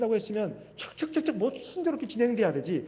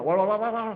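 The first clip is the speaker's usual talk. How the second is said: mock dog-like "wa-wa-wa" yapping; angry puppy imitation; slower than usual. Preacher mimicking someone made to rage like a dog, mock barking. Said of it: "그 강아지, 성난 강아지처럼".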